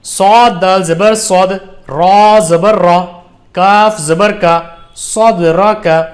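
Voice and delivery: slow, measured recitation with long-held letter names; drawn-out teaching recitation; Qaida spelling drill. Shown as a demonstration. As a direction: spell it out deliberately for beginners to repeat.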